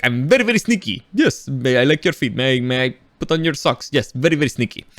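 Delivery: put-on accented voice of a sly butler; sneaky butler. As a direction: impersonate an odd, sneaky movie butler. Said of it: "he's the butler. He's like".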